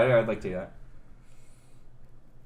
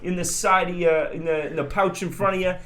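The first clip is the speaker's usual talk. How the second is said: put-on New England accent; 4 semitones higher than usual. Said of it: "a little New England there".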